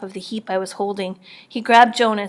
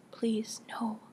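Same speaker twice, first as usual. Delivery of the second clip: frightened plea; 10 dB quieter than usual. A narrator's reading. Girl facing a guard's gun.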